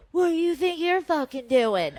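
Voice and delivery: high-pitched mock yell; retold yell. Woman recalling confronting the girls, mock yell. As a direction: imitate yourself yelling, without full volume. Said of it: "but I, like, yelled".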